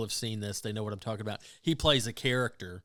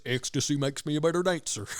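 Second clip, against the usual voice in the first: lightly done Southern effeminate guy voice; 4 semitones higher, 3 dB louder than usual. Retold or imitated. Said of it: "Southern effeminate guy voice".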